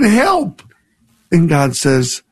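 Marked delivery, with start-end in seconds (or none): 0.0-0.6 desperate cry. Acted. Man dangling from cliff begs.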